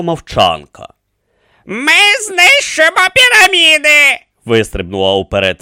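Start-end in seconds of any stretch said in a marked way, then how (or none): 1.7-4.2 high, loud proclamation; defiant. A narrator's reading. Pharrepta leaps forward against the pyramids, defiant. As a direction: declare it forcefully in a raised voice.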